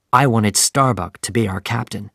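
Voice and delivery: plain reading voice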